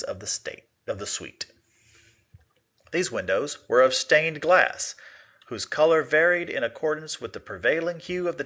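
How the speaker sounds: measured classroom read-aloud of a Poe tale; story narration. Acted. Teacher reads Poe story aloud.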